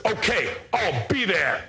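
slow, small timid voice; tiny timid voice. Shown as a demonstration. Caller on the phone, very timid and slow. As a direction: squeak it out like a shy little man. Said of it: "what kind of picture would you attach to a voice like this".

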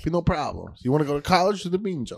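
gruff Jersey dad. Acted. Tough Jersey dad rant.

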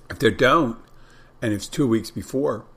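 talking while chewing; mouth full. Real, not acted. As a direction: speak through a mouthful of food. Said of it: "I'm munching when I'm doing this stuff".

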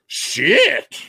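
high mock yell; mock zombie. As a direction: blurt it out in alarm. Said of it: "he turns and goes".

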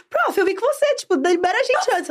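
very high mock schoolkid plea; pleading pupils. Voicing pupils pleading at the school gate.

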